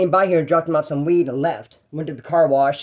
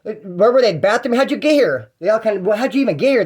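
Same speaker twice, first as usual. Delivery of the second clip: higher, pointed questions; suspicious accusing; 4 semitones higher than usual. Retold or imitated. Truck owners question the guy holding keys, suspicious. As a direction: grill him like you caught him. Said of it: "They go".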